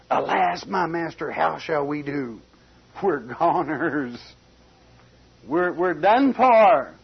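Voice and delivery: slow, panicky lament ending in a loud cry; frightened servant. Acted. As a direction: play the servant losing his nerve. Frightened servant voiced in scripture.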